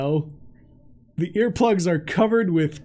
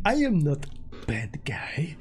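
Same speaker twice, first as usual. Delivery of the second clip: barbarian; 6 semitones lower, 9 dB quieter than usual. Acted. Barbarian insists he's harmless.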